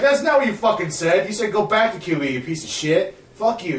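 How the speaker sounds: loud, high-pitched angry comeback; retold pissed-off outburst. Arrested teen calling out the lying cop, retold pissed off. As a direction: hurl it back furiously, re-enacting the row. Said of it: "all fucking pissed off".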